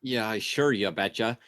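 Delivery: mock northern accent, lightly done; a hint of put-on northern accent. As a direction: answer back in a folksy northern accent. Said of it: "we have a northern accent".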